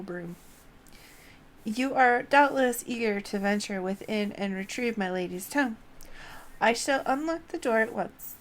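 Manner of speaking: loud, courtly and apologetic; bow and scrape as a polite old-fashioned broom; humble broom servant. Acted. Broomsy loudly apologising to madame and offering to unlock the door. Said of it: "Broomsy says".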